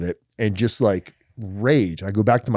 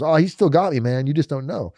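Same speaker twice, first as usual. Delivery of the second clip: higher, playful friend voice, slowing at the end; teasing bunkmate; 5 semitones higher than usual. Retold or imitated. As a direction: tease him knowingly, voice pitched up. Josh answering, voiced in story.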